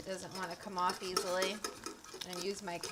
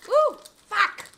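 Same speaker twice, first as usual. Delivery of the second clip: sudden pained outburst, much higher; burnt hand; 12 semitones higher, 13 dB louder than usual. Real, not acted. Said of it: "I burnt my hand".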